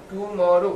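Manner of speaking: "টুমরো" stretched slowly into three beats; three syllables. Shown as a demonstration. Teacher asking if it has three beats, slow syllable-by-syllable "টুমরো". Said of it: "তিনবার উচ্চারিত হয়েছে".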